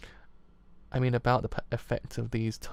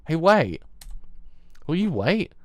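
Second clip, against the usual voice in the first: raised, higher-pitched urgent call; calling after someone; 5 semitones higher, 5 dB louder, slower than usual. Acted. Character calls after someone walking off in a quarrel, calling out. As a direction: call out loudly for them to stop.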